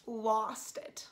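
breathy whisper of awe; hushed whisper. Real, not acted. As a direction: whisper lost it, overwhelmed. Reacting to the voices scene.

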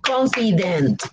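"Confident" slowly in three beats, CON-FI-DENT; syllable by syllable. Shown as a demonstration. Teacher counts three syllables for learners, syllable by syllable. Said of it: "three syllables".

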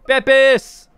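high loud goofy yelp; silly shout. Pretend. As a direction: blurt the brand name like a joke. Joking misspoken soda name.

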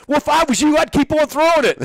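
high, loud retold reply; amused coach conceding; mock concession. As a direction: give in with a grin in the voice.

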